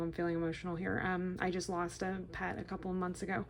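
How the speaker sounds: quiet, choked-up confession; holding back tears while talking; softly moved, voice dropping; real emotion. Real, not acted. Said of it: "sorry, I'm getting emotional".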